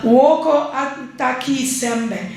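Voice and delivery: "Woko Anta Kisembe" said slowly in a mild Saramaccan accent. Shown as a demonstration. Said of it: "I've tried to do the accent".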